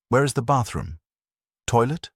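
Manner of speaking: put-on a nervous prisoner asking in a thick German accent. A narrator's reading. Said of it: "her accent thick".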